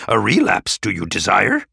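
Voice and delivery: put-on stern scolding old master; stern Yoda voice. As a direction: scold the reckless patient. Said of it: "Yoda commanded".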